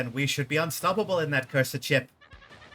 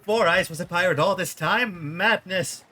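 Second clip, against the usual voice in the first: shocked; 4 semitones higher, 5 dB louder, slower than usual. Acted. Sailor shocked by the reveal.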